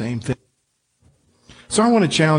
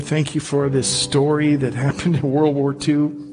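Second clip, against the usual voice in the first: pastoral prayer. Acted. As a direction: pray aloud for the congregation, sincere and calm. Closing prayer over music.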